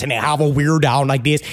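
exaggerated South Jersey accent. Shown as a demonstration. Mocking how South Jersey locals talk, South Jersey accent. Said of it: "they all talk like this".

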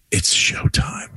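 hushed swaggering announcement; confident kid. Retold or imitated. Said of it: "quite confidently, to no one, he says".

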